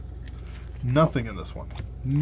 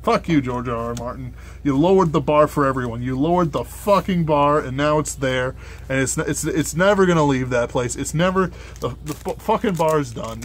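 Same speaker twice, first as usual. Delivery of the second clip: frustrated rant. Real, not acted. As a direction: vent at him, half joking. Ranting at an author.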